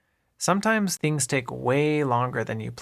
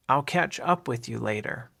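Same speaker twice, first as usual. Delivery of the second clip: up gets the weight; stress on up. Shown as a demonstration. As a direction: lean on the word "up" in the phrase. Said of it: "The emphasis here is usually on the word up".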